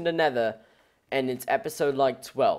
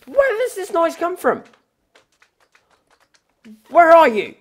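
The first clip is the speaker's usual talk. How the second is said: calling out; 12 semitones higher, 7 dB louder than usual. Real, not acted. Hunting the noise source.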